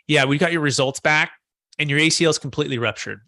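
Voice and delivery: a mild imitation of a doctor delivering bad news flatly, without feeling; "Everything's fine" said with no feeling at all, like a routine report; zero emotion. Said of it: "just zero emotion".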